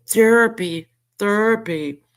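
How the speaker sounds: hammed-up imitation of Therapy; mock Therapy. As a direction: sneer Therapy. like her. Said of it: "how she says it".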